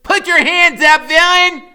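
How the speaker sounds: put-on high, loud kid hero shout; small heroic kid voice. A narrator's reading. Freak bursting in to stop the villain, high heroic shout. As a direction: call it out like a little superhero. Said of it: "a small, faraway voice".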